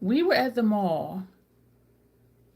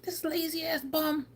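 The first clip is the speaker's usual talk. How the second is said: breathy whisper, higher; whispered insult; 8 semitones higher, 6 dB quieter than usual. Retold or imitated. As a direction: mutter it scornfully under your breath. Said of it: "I was like".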